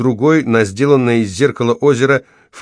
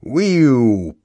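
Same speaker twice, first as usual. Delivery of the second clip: falling bomb whistle; 4 semitones higher than usual. A narrator's reading.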